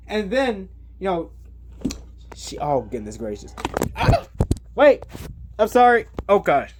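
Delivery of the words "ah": startled yelp. Real, not acted. Camera falls over suddenly.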